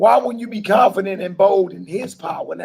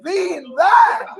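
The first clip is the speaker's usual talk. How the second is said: mock King's English; 6 semitones higher, slower than usual. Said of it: "He said".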